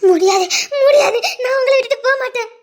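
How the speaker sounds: loud tearful protest; crying refusal. Acted. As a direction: cry out that you won't leave him. Wife refuses to let him go. (அழுகையுடன் உரத்த மறுப்பு)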